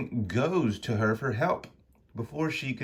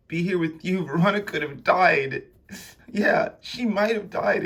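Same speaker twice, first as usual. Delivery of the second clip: higher, louder acted outburst; upset reproach; 9 semitones higher, 4 dB louder than usual. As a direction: scold in alarm, pitch raised. Acted quarrel over Veronica's danger.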